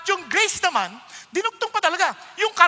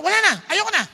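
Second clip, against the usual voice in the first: louder, giving up on them; God saying he is done; loud exasperated refusal; fed-up God; 4 semitones higher, 5 dB louder, much faster than usual. Retold or imitated. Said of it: "Sabi niya ganun".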